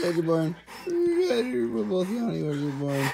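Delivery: high squeaky voice. Pretend. Voicing dogs, high squeaky.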